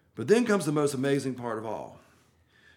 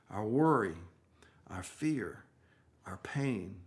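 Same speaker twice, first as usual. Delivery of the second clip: dropping to a whisper, much softer; hushed; 5 semitones lower, 6 dB quieter than usual. Real, not acted. Preacher naming the listeners' fears, sinking to a whisper. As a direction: let the words fall away almost breathless. Intimate sermon climax.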